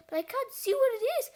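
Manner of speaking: hurried storybook bafflement; startled cry. A narrator's reading. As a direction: blurt it out in mild alarm. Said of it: "cried Cheeseball".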